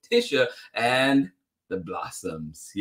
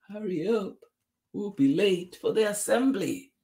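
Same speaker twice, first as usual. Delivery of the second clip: high voice at normal volume; hurrying teacher; 9 semitones higher than usual. A narrator's reading. Teacher rushing class to assembly, high mild call. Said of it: "said the teacher".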